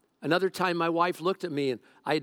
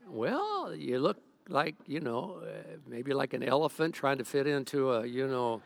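halting, softened stalling; acted reluctance, trailing off carefully; hesitant hedging; 3 dB quieter than usual. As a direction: squirm around an awkward answer. Dodging the fat question.

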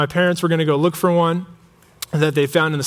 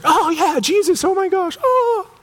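very high, squealing mock gush; sudden elated recognition; 14 semitones higher than usual. Mary suddenly recognizing Jesus, hammed-up high squeal. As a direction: imitate an overjoyed squeal, climbing to a held high note.

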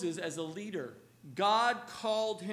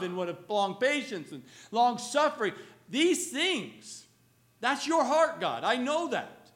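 fervent prayer; 3 semitones higher, 7 dB louder than usual. Pretend. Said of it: "bring back into prayer".

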